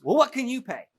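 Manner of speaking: high-pitched wife; high woman voice. Retold or imitated.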